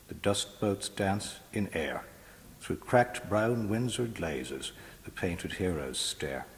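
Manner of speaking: measured, rhythmic verse reading; poetry reading. Acted. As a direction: read the poem with slow weight. Poet reads poem aloud.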